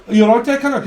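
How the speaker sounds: loud, high Birmingham greeting; Brummie accent. Retold or imitated. Brummie asks a stranger, loud mock Brummie accent. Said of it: "it's Brummy".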